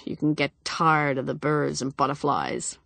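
a confiding whisper; whispered aside. Acted. Dyson confiding to Molly behind his wife's back, whispered. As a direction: drop to a whisper, sharing a secret.

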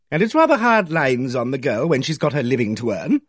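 loud brisk statement, "living to earn" said flatly; bossy lady. Acted. Aimee Griffith's hearty voice.

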